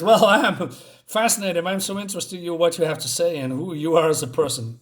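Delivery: retold mock fascination, lightly sarcastic; sarcasm. Master feigns interest in what his captive has to say, sarcastic. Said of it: "That was sarcasm".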